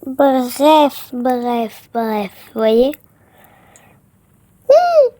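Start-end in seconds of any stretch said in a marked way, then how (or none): 4.7-5.1 surprised. Real, not acted. Reacting to the pet's trick.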